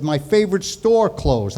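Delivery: mildly upset Brooklyn uncle; Brooklyn accent. Retold or imitated. Upset uncle telling about his store, Brooklyn accent. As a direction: lament lightly in Brooklynese. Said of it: "He spoke with a Brooklyn accent".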